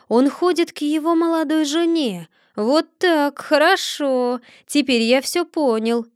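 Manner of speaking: put-on a grumbling old man reasoning aloud; Chub muttering to himself. Chub's musing voiced. (старик Чуб бормочет себе под нос)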